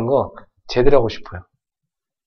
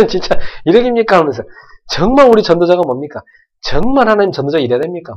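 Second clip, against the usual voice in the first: higher, louder mock complaint to God; retold outburst; 5 semitones higher, 5 dB louder than usual. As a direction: vent the frustration, half-shouting. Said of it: "고함을 질렀어요".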